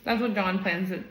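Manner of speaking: talking while chewing; words round a mouthful of pasta; mouth full. Real, not acted. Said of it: "I'm not gonna talk with my mouth full".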